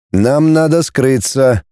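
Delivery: slow, even robot voice; an understated machine-like calm; measured monotone. Acted. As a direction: speak like an android, evenly. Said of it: "мерным однозвучным голосом".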